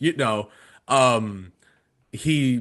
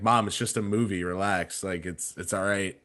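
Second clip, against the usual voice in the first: sarcastic; 3 semitones lower, 4 dB quieter than usual. Retold or imitated. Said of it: "a sarcastic tone".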